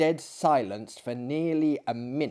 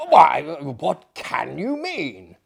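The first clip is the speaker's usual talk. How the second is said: surprised; 8 dB louder, slower than usual. Acted. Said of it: "in unfeigned surprise".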